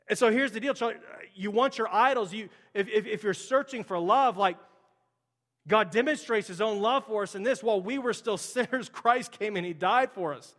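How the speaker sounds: preaching with mounting force, punching the questions; building sermon climax, urgent and pleading; rising preaching fervor. Acted. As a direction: press each question on the congregation like a closing appeal. Builds to a forceful altar-call climax.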